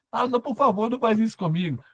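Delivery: hammed-up begging not to be eaten; mock crying plea. Terrified Portuguese prisoner begging his captors, mock sobbing.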